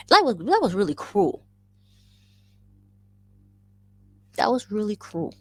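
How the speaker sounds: high-pitched playful hurt; wounded protest. Real, not acted. Daughter reacting to mother's blunt remark, wounded protest.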